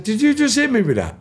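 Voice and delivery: high, loud disbelieving question; retold shocked confrontation; incredulous challenge. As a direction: ask it stunned and outraged. Retelling confronting attacker.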